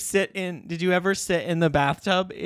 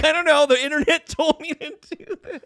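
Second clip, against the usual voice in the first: put-on ex-boyfriend voice; 11 semitones higher than usual. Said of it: "And he was like".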